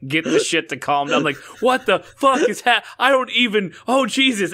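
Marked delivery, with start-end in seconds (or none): 1.6-4.5 high, strained cry of pain and disbelief. Retold or imitated. Retelling the cramp to his co-host, high strained pained cry. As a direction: squeal it out like the cramp just hit. Retold agony at night cramp.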